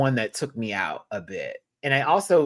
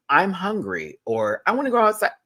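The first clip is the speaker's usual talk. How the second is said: cat-voiced; 7 semitones higher, 4 dB louder than usual. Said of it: "tone and inflection change she does".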